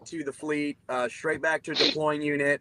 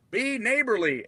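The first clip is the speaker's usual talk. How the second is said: higher-pitched, mildly preachy plea; mock chaplain; 6 semitones higher than usual. Chaplain answering Teague's scripture, mock pious rebuke. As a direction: lightly imitate a chaplain pleading.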